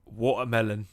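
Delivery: lightly put-on British accent; British-accented "watermelon", a quick demo. Shown as a demonstration.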